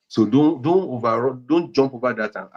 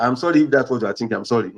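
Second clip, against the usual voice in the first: dismissive apology; faster than usual. Shown as a demonstration. Counsellor showing spouse the wrong apology, hurried and offhand. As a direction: toss off a careless sorry. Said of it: "Not that".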